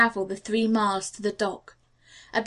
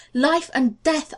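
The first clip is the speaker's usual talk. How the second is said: Life and death, slow, stress on Life with a rise; slow emphatic repeat; 5 semitones higher, 3 dB louder, slower than usual. Acted. John Quincy repeating his plea to the officer, slow and emphatic. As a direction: lean on Life and death, drawn out.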